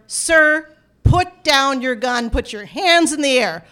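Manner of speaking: lightly voiced officer giving orders; slow, firm, measured command; police command. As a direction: order an armed man to comply, deliberately. Police ordering an armed man.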